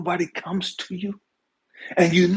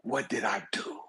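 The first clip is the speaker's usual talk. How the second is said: wondering; 9 semitones lower, 8 dB quieter than usual. Acted. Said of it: "And he's wondering".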